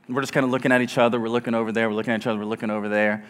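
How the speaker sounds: low, soft, quick monotone; hushed deadpan. Retold or imitated. Couple exchanging looks as a stranger's baby cries, hushed deadpan. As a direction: rattle it off under the breath. Awkward silent glances in restaurant.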